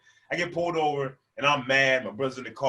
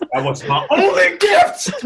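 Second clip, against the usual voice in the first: high, loud, drawn-out cry; slow tantrum shriek; mock wail; 12 dB louder, slower than usual. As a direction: scream it in hammed-up heartbreak. Wailing over stolen gift card.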